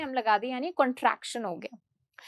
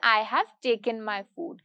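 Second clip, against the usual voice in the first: formal; 4 semitones lower, much slower than usual. Shown as a demonstration. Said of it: "मतलब मैं बहुत ही formally जवाब दूंगी".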